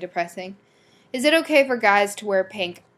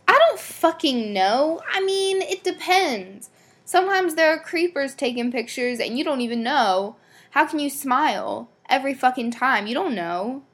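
getting mad; 5 semitones higher than usual. Real, not acted. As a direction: rant it, half-amused but worked up. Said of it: "I don't know why I'm getting so mad".

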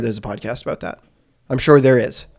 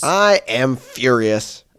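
unconvincing fury; 2 semitones lower, much slower than usual. Pretend. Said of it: "you don't seem that mad".

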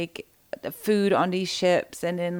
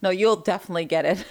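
laughing. Real, not acted. Teasing friend while laughing.

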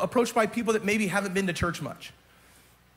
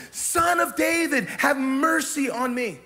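crying out; 4 semitones higher, 3 dB louder, slower than usual. Acted. Preacher reenacts the beggar's cry.

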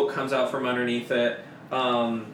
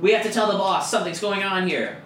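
higher, louder urgent; alarmed guard; 8 semitones higher, 5 dB louder, faster than usual. Acted. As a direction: hurry to warn the boss. Guard urging to alert boss.

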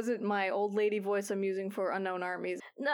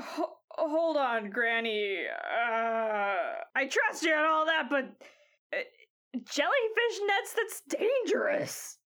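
worried objection. Acted. Squall objects to poison nets.

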